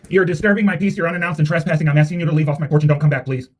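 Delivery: loud, stern and formal, ordering them off the porch; firm loud warning. Real, not acted. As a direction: project it to send trespassers off.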